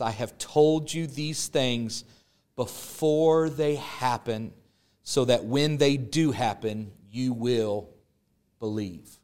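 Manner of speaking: slow, weighty reading of the verse; slow solemn scripture. Acted. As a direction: let each phrase land slowly. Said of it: "And he says it like this".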